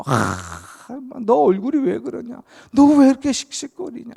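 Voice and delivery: high, loud and fast asking; excited question. Acted. Onlooker asking fuming Esau why he is panting, high and loud. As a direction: blurt it out in alarm.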